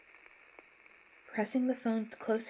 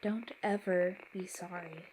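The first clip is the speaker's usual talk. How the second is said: put-on warm Southern accent. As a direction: gently insist in a Southern accent. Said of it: "a delicate deliberateness in her delivery".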